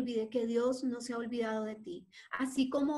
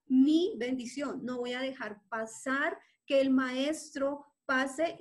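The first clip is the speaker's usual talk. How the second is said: determined cry; 3 dB louder, slower than usual. Acted. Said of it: "Su voz fue más audible".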